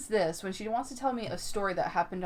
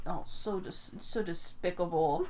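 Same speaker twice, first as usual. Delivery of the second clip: put-on half-hearted Italian grandma accent; clumsy imitation of an Italian accent; bad Italian accent; 4 dB quieter than usual. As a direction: attempt an Italian accent, a little amused. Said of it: "I can't do a fucking Italian accent".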